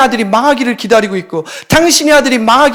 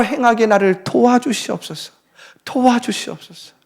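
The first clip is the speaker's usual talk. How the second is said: fervent prayer; 3 semitones higher than usual. Acted. Models a prayer.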